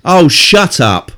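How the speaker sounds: slow, drawn-out disgust; exasperated. Real, not acted. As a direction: groan it out, fed up. Annoyed at on-screen character.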